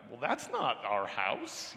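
slow, innocent denial; playing dumb. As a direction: feign ignorance, drawn out. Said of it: "And I play dumb every time".

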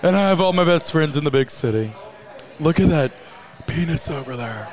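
Samantha impression. Co-host acting out Samantha's girl talk for the host, in a hammed-up voice. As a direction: play the brash city woman boasting. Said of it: "And she's like".

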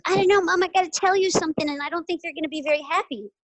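a hint of a worried little girl, hurried; voicing her daughter. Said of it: "And she goes".

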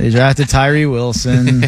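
slow droning deadpan through a laugh; monotone voice. Pretend. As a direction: say it slow, flat, barely holding a laugh. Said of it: "in a monotone voice".

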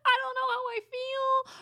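high, tearful laughing voice; half laugh, half wail it; high laughing lament; laugh-crying. Real, not acted. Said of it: "laughing-crying over the book".

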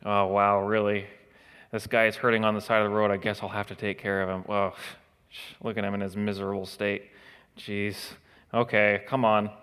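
mock grudging sighing helper; a hint of contemptuous reluctance; disdainful pity. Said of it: "not a pity like a disdain or a contempt sort of pity".

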